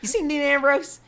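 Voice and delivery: a high little Southern accent, mocking a wrestler; Jamie Noble Southern accent. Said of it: "in his thick Southern accent".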